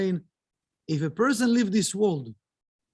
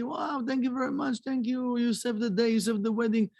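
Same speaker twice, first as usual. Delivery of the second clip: higher, delighted thanks; happy grateful townspeople; 5 semitones higher than usual. Retold or imitated. Townspeople thanking Rabbi Zusha for the found money, overjoyed. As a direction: gush with relief and gratitude. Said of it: "everybody was happy".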